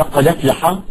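"قد أفلح" linked as qada-flaha; no glottal stop in "قد أفلح"; transferred vowel. Shown as a demonstration. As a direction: carry the vowel of "أفلح" onto "قد". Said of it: "النقل مثل قوله تعالى".

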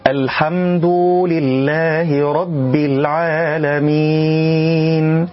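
slow chant, "الحمد" said as al-hamduu with an added waw; over-lengthened damma. Shown as a demonstration. Reciter imitates a mistake for learners, damma overfilled into waw. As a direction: stretch the end of "الحمد" into a long "duu". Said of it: "إشباع ضم الدال في كلمة الحمد".

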